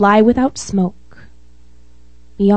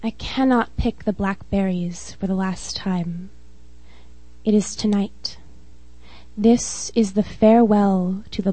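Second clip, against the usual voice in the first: measured spoken-word poem reading; steady, earnest poetry reading; poem recital; 3 dB quieter than usual. Acted. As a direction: read it like a poem at an open mic.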